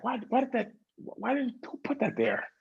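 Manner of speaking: high, exasperated whine; mock irritated whine. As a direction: whine like someone who just got hurt. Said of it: "we just get irritated".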